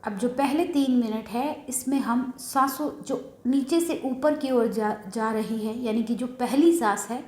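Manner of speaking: calm breathing instructions with long pauses; settled, slightly softened meditation-guide voice; guided meditation. Real, not acted. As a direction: guide them gently into meditation, pausing between steps.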